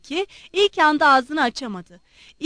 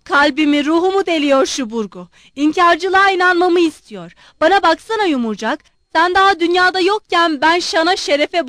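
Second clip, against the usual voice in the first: loud, higher ranting abuse; shouting general; 4 semitones higher, 6 dB louder than usual. A narrator's reading. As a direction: rant at the boy at full voice. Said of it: "general bağırıp duruyordu".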